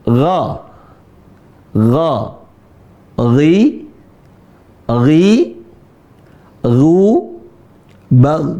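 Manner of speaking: "Gha, ghi, gu, bag" with a gargled, throaty gh; huruf ghain bergetar. Shown as a demonstration. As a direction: sound each gh as a gargle at the back of the throat. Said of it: "Ada suara garah-garah". ("Gha, ghi, gu, bag" dengan bunyi garah-garah di tenggorokan)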